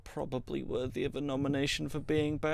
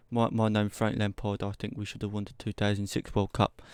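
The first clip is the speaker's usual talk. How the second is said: put-on a light, half-hearted Cockney accent; lightly mock a Cockney footballer in a Cockney accent; 4 semitones lower than usual. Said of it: "You've got to sound a bit like this".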